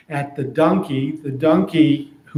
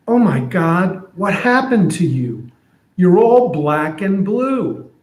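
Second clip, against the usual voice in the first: a touch higher, a lightly voiced worried friend; shocked friend; 3 semitones higher than usual. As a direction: friend gasping at the donkey's bruises. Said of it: "So here's what I'm imagining".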